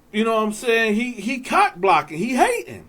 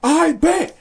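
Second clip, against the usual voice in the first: mock guard yelling; 4 semitones higher, faster than usual. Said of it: "he's screaming back".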